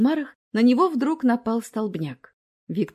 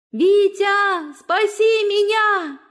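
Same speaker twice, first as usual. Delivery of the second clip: high, loud, slow drawn-out plea; terrified plea; 11 semitones higher, 6 dB louder, much slower than usual. A narrator's reading. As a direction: plead in terror, fading away. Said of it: "Голос Дины отдалялся".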